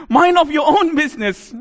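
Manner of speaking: high, loud demon shooing someone away; loud, high demonic rebuke; demon's voice. Acted. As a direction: shout it as an indignant demon. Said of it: "What the demon says is this".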